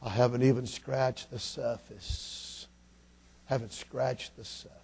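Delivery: slow, soft Southern drawl; quiet old-preacher Southern drawl, unhurried. Retold or imitated. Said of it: "in that southern drawl".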